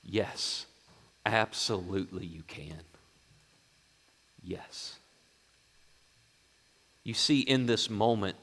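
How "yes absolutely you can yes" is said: soft, gentle assurance; hushed, tender promise; Jesus. Acted. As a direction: grant it quietly, fading almost to a whisper. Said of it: "Jesus turns to him and said".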